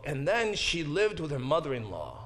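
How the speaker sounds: lightly voiced storybook sign-off; storybook ending. Shown as a demonstration. Teacher showing the class how a book would end, storybook ending. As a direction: read it as a closing line, falling at the end. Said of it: "it almost sounds like the end of the book".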